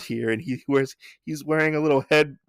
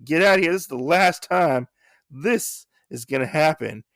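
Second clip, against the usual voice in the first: angry pig cook; 3 semitones higher than usual. Retold or imitated. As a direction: chase him off like an angry cook. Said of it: "he's like".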